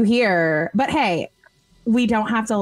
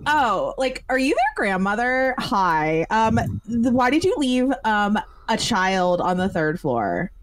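put-on sassy kid; 3 semitones higher than usual. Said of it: "being like".

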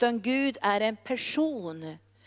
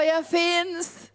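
high, sustained call; 6 semitones higher than usual. Acted. God calls through nature to people, calling out. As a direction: proclaim it out across creation. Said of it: "Han ropar".

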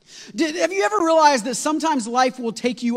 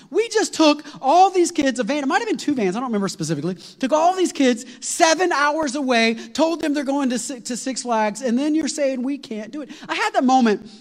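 exasperated; 5 semitones higher than usual. Real, not acted. Exasperation at the closure.

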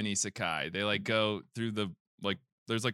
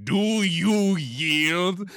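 high, loud, very drawn-out demand; slow, hammed-up royal challenge; demanding penguin king; 7 semitones higher, 6 dB louder, much slower than usual. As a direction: call for surrender like a grand little king. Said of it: "And then he's like".

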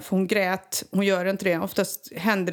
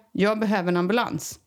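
usual speaking voice

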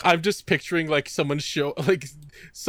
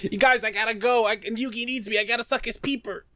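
goofy Joey voice; 8 semitones higher than usual. Retold or imitated.

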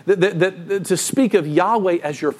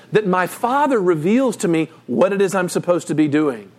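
normal talking voice

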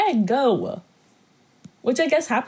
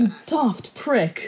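slowed mock British jab on daft; a second go at the British line; British accent attempt; 2 semitones higher, much slower than usual. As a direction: sound it out the British way. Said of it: "Something like that".

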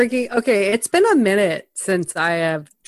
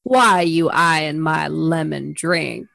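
put-on creepy old lady; 4 semitones lower, slower than usual. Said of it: "this creepy old lady says to Mark Wahlberg".

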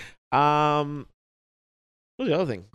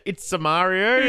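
mock Italian accent; 5 semitones higher, 4 dB louder, slower than usual. Shown as a demonstration. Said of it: "if you could say with an accent".

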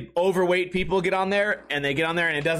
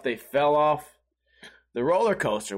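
lower, half to himself in disbelief; stunned inner thought; 5 semitones lower than usual. Retold or imitated. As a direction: mull it over, low and baffled.

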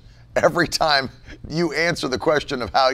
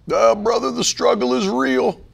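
mock complaining; 7 semitones higher than usual. Preacher mocks a churchgoer moaning about struggles. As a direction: ham up a self-pitying sigh. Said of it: "how hard we've pushed back against that".

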